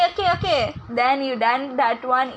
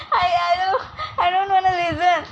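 whining; 6 semitones higher, faster than usual. Pretend. Drunk friend wails, cuts in.

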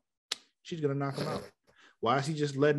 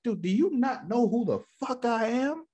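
mock outraged Superman; 12 semitones higher than usual.

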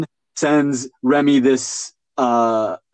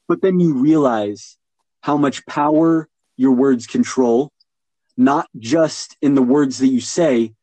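deliberate delivery; slower than usual. Shown as a demonstration. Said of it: "but in how you deliver them".

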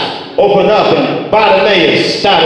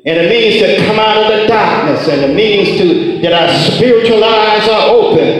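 ringing, rhythmic revival preaching; full-force preaching. Real, not acted. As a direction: preach it out with conviction.

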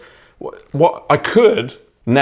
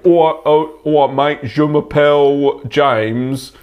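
mock French accent; much slower than usual. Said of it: "putting on a French accent".

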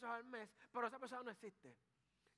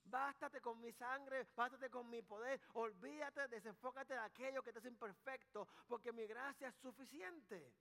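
voice of God; 2 semitones higher than usual. Retold or imitated. Preacher voicing God answering Paul, lightly reassuring. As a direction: speak as God comforting Paul, slow and firm. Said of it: "Dios le dijo".

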